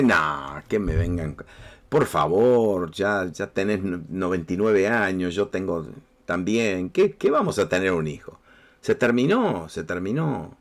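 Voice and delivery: low, slow scornful scoff; a mild mock of a scornful old woman. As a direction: scoff at the idea like it's absurd. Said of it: "Sara se burla".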